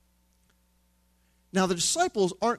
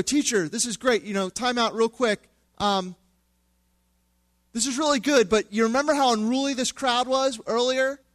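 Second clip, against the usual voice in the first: higher, chatty disciple tugging Jesus' sleeve; a lightly voiced fretful disciple, higher; casual pleading disciple; 4 semitones higher than usual. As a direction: coax the teacher to wrap it up, higher. Preacher voices worried disciples to Jesus.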